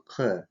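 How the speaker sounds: "К" made far back in the mouth; "К" as a voiceless burst from far back; voiceless back-tongue stop. Shown as a demonstration. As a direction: say "К" with back tongue closed on back palate. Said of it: "заднеязычный".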